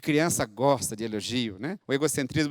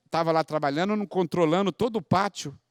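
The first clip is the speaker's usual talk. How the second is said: usual speaking voice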